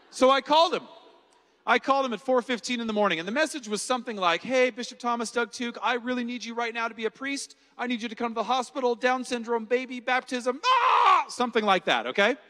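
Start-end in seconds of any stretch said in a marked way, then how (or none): 4.4-10.6 frantic voicemail. Retold or imitated. 10.6-11.3 sudden high, loud panicked "ah!"; panicked yell. Retold or imitated. Ends frantic voicemail.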